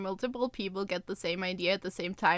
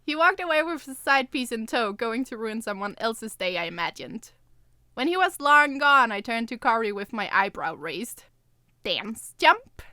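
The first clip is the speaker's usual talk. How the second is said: lightly voiced first-person storytelling; story narration; 4 dB louder than usual. A narrator's reading. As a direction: read the chapter evenly to listeners. S0 reads novel chapter aloud.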